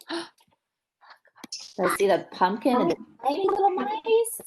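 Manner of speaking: put-on fast excited whisper to the children; hushed, breathless wonder. Reading picture book to children.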